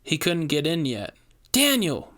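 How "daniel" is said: high call of the name; yelled name. A narrator's reading. Rainey yelling for Daniel as door breaks, high alarmed call. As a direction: cry out in alarm. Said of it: "my companion yelled".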